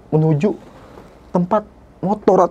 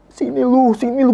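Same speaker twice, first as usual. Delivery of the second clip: retold yell; 5 semitones higher than usual. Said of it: "gua teriak".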